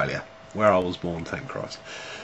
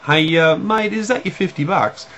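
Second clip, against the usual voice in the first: high, louder call to a stranger; 10 semitones higher, 4 dB louder than usual. Retold or imitated. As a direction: call out across the street to catch him. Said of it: "I'd go".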